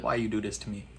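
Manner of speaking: a hint of a weary dad pleading; son's antics drive dad to complain, lightly voiced; disappointed dad. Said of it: "He's like".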